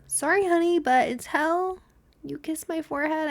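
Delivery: high, sassy aside to the cat; mock apology to cat. Real, not acted. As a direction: talk down to the cat. Addressing the cat.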